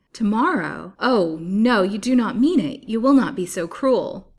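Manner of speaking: loud, high, desperate pleading; agonised cry. A narrator's reading. Captive begs villain for mercy, agonised. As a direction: plead helplessly, crying out each phrase. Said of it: "in helpless agony".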